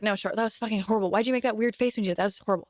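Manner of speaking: fast, blunt imitation of a critical dad; harsh dad critic. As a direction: rattle off the critique, mocking. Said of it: "and he's like".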